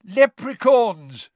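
high, loud, drawn-out cry; excited exclamation. A narrator's reading. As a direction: call it out over a roaring crowd. Delighted cry over roaring crowd.

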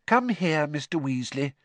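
gentle, patient help offered; kindly. Acted. Hermione helping Mr Weasley light the fire, kindly. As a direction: coax him kindly, like teaching a child. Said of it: "said Hermione kindly".

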